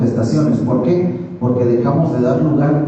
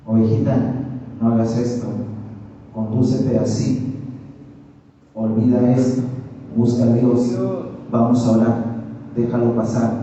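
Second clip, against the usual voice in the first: gentle pastoral correction; 3 dB quieter than usual. Acted. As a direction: correct someone patiently, in short unhurried phrases. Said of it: "El pastor de las ovejas corrigiendo a la oveja". (corrección pastoral, con calma)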